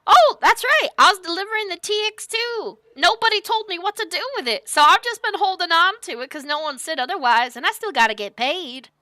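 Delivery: high, loud cowboy chatter; booming cowboy rambling; hearty recall. Acted. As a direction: blurt it out cheerfully. Sunny recalls delivery.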